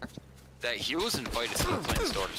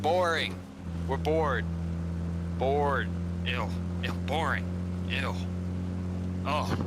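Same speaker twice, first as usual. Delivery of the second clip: mock heckling. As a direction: heckle the speaker like a bored troll. Comedy duo heckling Trump at rally.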